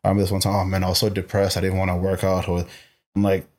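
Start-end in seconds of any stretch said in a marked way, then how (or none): 0.0-2.5 easy, offhand retelling in an everyday voice; retold throwaway remark; casual admission. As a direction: drop it casually into conversation. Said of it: "So I'll just say it casually".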